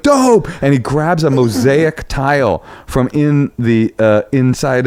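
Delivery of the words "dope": high mock-thrilled exclamation; pitched-up burst of delight; a pop star. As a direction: imitate a stoked pop star.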